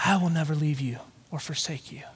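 soft, low breathy whisper; hushed divine promise, barely voiced; whispered words of God. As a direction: whisper it like a voice inside the heart. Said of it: "the words of God whisper in my heart".

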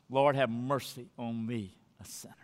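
hushed, breathy prayer for mercy; whispered plea. Shown as a demonstration. Sinner whispering a plea to God for mercy. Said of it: "we cry out something like this".

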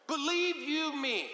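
slow, earnest swearing; a hint of someone swearing trust; believe-you-me oath. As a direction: lean in and vouch for yourself. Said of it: "get someone to trust us or believe us".

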